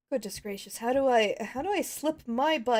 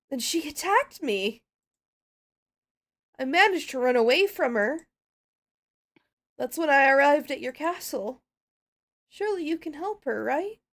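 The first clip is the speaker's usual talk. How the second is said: lightly voiced worried pony; a touch of a frightened pony; pony recounting attack. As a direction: tell the attack like a shaken pony. Pony tells of Starlight attack.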